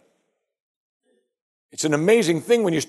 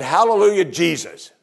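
a higher, louder hallelujah dropping back on the name; mock jubilation; 4 semitones higher, 3 dB louder than usual. Preacher imagines the town cheering Jesus, mock jubilation. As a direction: cheer like a grateful crowd, briefly.

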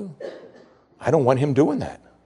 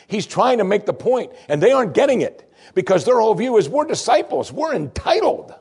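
rising higher and louder toward a peak; preaching crescendo; 11 semitones higher, 4 dB louder than usual. Real, not acted. Preacher to congregation, mounting fervor. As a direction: build it up like a sermon climax.

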